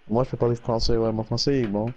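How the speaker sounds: casual Quebec French; speaking French. Real, not acted. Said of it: "you got a French accent".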